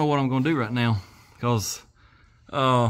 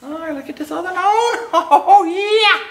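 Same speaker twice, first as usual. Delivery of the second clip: higher, laughing through the words; high giggly laugh breaking into oh yeah; 6 dB louder than usual. Real, not acted. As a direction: laugh it out, amused at the mess. Laughing at the bent bar.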